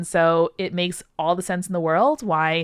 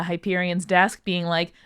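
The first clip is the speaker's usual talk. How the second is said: ordinary talk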